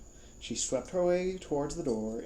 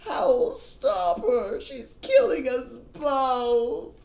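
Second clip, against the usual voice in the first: high, loud, slow roar; slow high roaring plea; 14 semitones higher, 8 dB louder, much slower than usual. Acted. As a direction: roar for help, desperate. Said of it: "Calcifer was roaring".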